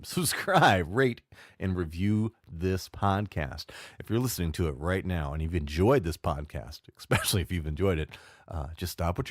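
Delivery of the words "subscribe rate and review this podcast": slow emphatic plea. Shown as a demonstration. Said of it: "One more time".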